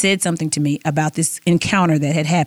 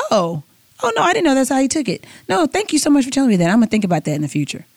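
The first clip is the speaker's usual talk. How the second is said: mock husband; 7 semitones higher, faster than usual. Husband graciously accepts her point.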